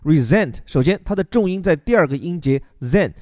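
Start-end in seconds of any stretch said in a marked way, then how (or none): 0.0-0.6 resent said re-ZENT, stress on the second syllable, S voiced as Z; careful pronunciation. Shown as a demonstration. Teacher showing morning-reading students how to say resent, clear and careful. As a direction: sound resent as ri-ZENT with a buzzing Z. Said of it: "注意这里这个发音哈".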